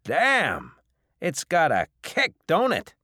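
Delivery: high, loud exclamation; impressed bar owner. Acted. Bar owner after tasting strong liquor, loudly impressed. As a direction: burst out at the kick of the drink.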